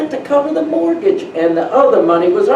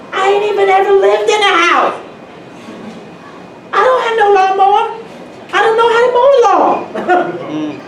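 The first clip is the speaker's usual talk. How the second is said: amused disbelief; 11 semitones higher than usual. Real, not acted. Disbelief at buying a house.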